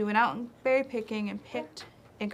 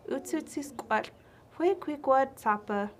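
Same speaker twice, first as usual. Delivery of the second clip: chipmunk's startled reply; 4 semitones higher than usual. Acted. Chipmunk answers Owl Lady.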